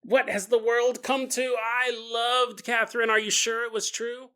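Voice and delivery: slightly dawdling, lightly voiced old woman; old lady reading news. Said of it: "you read the newspaper and you go".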